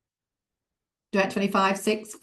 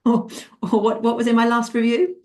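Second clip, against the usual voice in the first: higher-pitched, halting mock recall; trying to remember; 4 semitones higher, 3 dB louder than usual. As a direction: act out groping for a memory. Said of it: "look down and try and remember".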